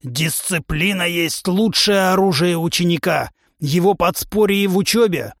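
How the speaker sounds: a brash trainer lecturing his recruit; a touch of a boastful warrior coach; hint of a gruff trainer. Trainer humanoid voiced.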